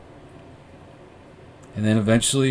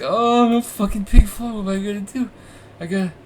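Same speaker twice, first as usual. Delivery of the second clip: retold panic; 8 semitones higher than usual. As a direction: replay the panic of losing the music, pitched way up. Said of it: "So I was freaking out".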